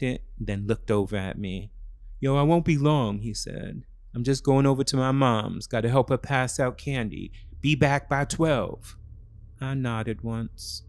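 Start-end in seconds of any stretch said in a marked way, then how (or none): 2.2-9.0 put-on boyfriend voice.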